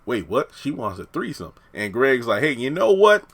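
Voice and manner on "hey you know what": awkward. Retold or imitated. Greg nervously backing away.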